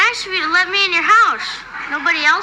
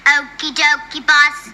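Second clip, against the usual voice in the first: lower, monotone robot echo; robot girl; 3 semitones lower, slower than usual. Acted. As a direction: parrot the words like a machine. Robot girl answers the command.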